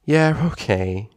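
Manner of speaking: sheepish. Acted. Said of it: "Twilight blushed".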